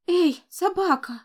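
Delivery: put-on high, slow child's call. A narrator's reading. Little boy calls out to the fallen dog, high child voice.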